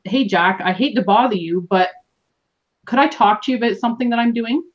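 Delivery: weak, apologetic approach; lacking confidence. Shown as a demonstration. Coach showing how not to approach Jack, unconfident. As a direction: open tentatively, as if imposing. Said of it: "very weak and lacking in confidence".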